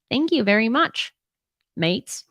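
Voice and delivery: a cheeky, bad Aussie accent thanking the mates; playful Australian accent thanking Australia; mock Australian accent. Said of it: "That was probably a horrendous Australian accent".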